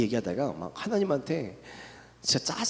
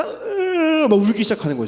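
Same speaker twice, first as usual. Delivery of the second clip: voice breaking into tears; 7 semitones higher, 4 dB louder than usual. Real, not acted. Remembering breaking down in prayer.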